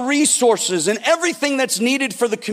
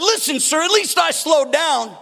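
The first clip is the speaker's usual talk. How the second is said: higher-pitched defensive plea to the cop; acted protest, pitched up; protesting driver; 5 semitones higher than usual. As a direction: argue your case, indignant. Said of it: "And the guy said".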